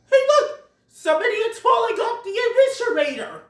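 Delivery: high, loud excited shout; calling out. Retold or imitated. An animal pointing out someone falling, shouting high. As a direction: yell it out to the whole crowd.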